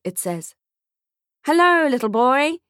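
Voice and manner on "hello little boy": high, loud salesman greeting; a pushy photographer all smiles; beaming photographer. Acted. Photographer to the boy, beaming and loud. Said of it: "he says, beaming".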